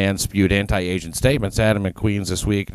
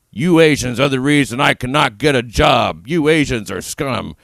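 mock film-villain line, higher pitch; auditioning actor's line; 4 semitones higher than usual. Host auditioning as a movie hate criminal, hammed-up line reading. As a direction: overplay an unbelievable movie line. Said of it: "I don't think I could believably say".

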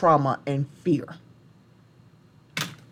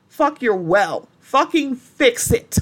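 loud, higher and slow on fix it; furious retort; 5 semitones higher, 3 dB louder, slower than usual. Real, not acted. She fires back at politicians who excuse this, in fury. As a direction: spit it back at them, furious.

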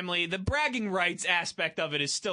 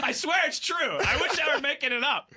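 higher-pitched, laughing insistence; laughing protest; 4 semitones higher than usual. Real, not acted. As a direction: swear it through laughter. Laughing at co-host's look.

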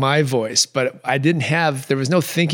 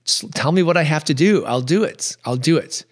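retold lament, slightly raised voice; mildly loud plea; 3 semitones higher than usual. Pleading aloud with the universe for an answer, mildly loud. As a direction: plead a little louder, without shouting. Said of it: "I was speaking pretty loud".

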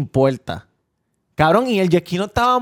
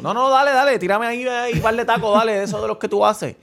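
imitated drunk customer, pitched higher; mock an impatient tipsy regular, voice raised in pitch; lightly acted higher-voiced drunk; 5 semitones higher than usual. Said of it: "está bien encasquillado y borracho".

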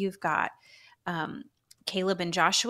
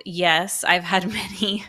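holding back laughter; 7 dB louder than usual. Real, not acted. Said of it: "I'm trying not to laugh into the microphone".

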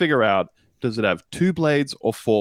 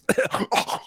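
hacking, voiceless gagging cough; choking mower noise. Acted. Lawnmower clogged in its throat, hacking and gagging. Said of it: "and your mower goes".

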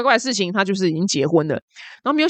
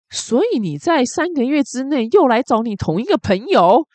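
stern interrogation; 5 semitones higher than usual. Retold or imitated. Customs officer turning hostile on the traveler, slow stern imitation. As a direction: press the question like a suspicious officer. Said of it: "他就变脸说".

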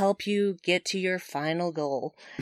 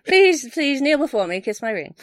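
high, loud pretend queen demanding homage; mock diva; 6 semitones higher, 5 dB louder than usual. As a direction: lord it over him, hamming it up. Joking celebrity demands homage.

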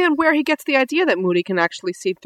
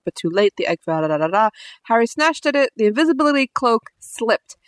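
reading the book aloud, lightly; story narration; 2 semitones lower than usual. Acted. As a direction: read it like a storyteller. Reads book passage aloud.

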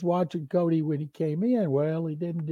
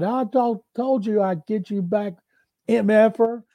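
higher and louder, a triumphant taunt; gleeful payback yell; 5 semitones higher, 4 dB louder than usual. Retold or imitated. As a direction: yell it like the prank just landed. Prank payback, shouting at teammate.

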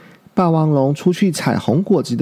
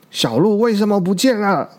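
loud demanding question; 6 semitones higher than usual. Acted. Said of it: "霸王龙很大声地问大家".

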